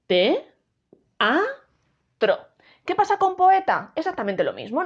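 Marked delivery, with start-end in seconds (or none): 0.1-0.5 te-a-tro con una pausa tras cada sílaba; separado en sílabas. Shown as a demonstration. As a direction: di te, a, tro como tres sílabas sueltas. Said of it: "se pronuncian en sílabas diferentes". (te-a-tro silabeado, vocales separadas)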